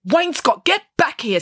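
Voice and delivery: high, commanding shout; stern call. Acted. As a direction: order a runaway pupil back. Headteacher calling runaway pupil back.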